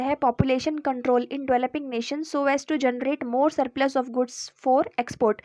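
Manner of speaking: slow, even dictation of the heading; dictating pace for notes; slow heading read. Acted. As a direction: read it out slowly so students can note it down. Reads the suggestion heading slowly.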